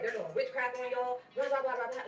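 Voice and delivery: patient shouting through hospital halls, mild retold yell. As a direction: replay the hallway shouting, lightly. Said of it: "I'm just yelling about them being witches".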